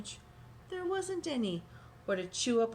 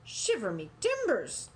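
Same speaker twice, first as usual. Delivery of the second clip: hearty pirate oath; pirate exclamation; 3 semitones higher, 4 dB louder than usual. Acted. Pirate captain reacting to North Beach. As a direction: bluster like an old sea dog. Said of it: "the pirate said".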